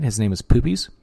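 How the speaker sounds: Poopies tipped up like a question; questioning lilt on Poopies. Shown as a demonstration. Checking viewers heard the silly name, Poopies rising. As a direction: end on a rising, incredulous Poopies. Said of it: "keep saying it like that".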